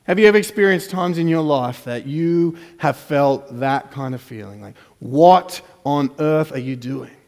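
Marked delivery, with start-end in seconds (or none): 5.0-7.2 pleading complaint. Retold or imitated. Preacher voicing a hurting believer's plea to God. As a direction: demand answers from God.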